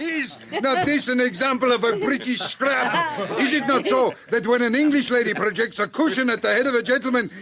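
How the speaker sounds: laughing. Acted. Foreigner amused during rag.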